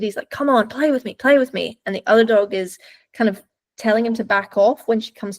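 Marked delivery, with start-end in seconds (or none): 0.3-1.8 higher, insistent nagging to play; mock a pestering, impatient playmate; mildly frustrated pleading. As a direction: voice a dog badgering for attention, pitched up. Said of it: "He's getting frustrated".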